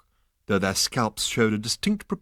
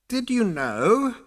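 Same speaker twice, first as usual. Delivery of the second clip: slow ghostly interruption; 13 semitones higher, slower than usual. A narrator's reading. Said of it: "interrupted the ghostly figure".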